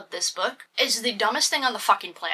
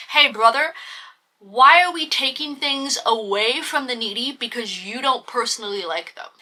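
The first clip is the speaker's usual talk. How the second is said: mock scolding. Reviewer scolding the hero over stolen toys, mock indignant. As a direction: chide him like a pal gone wrong.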